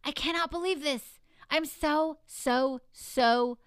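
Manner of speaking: retold gasp of shocked disbelief. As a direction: replay the moment of disbelief. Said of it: "And I was like".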